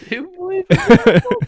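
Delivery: very high, loud mock sportscaster call; high-pitched reenactment of a triumphant call; imitated excited shout. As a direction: shout it fast like a commentator witnessing an upset. Re-enacts the famous commentary call.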